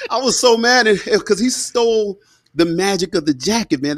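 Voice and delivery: high, through laughter; laughing while talking. Real, not acted. Storyteller laughing over his ruined jacket, high and laughing. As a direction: say it laughing at yourself.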